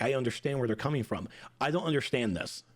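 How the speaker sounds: ordinary talk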